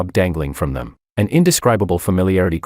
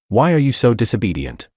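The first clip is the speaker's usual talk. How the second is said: ordinary delivery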